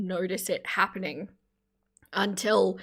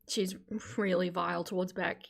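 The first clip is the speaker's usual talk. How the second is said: whisper; 6 dB quieter than usual. Real, not acted. Lowered voice aside.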